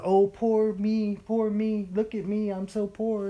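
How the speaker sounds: mildly whiny send-up, drawn out at the start; mock self-pity. Preacher mimicking believers comfortable in their misery, mock self-pity. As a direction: imitate someone licking their wounds. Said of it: "We get comfortable in the self-pity".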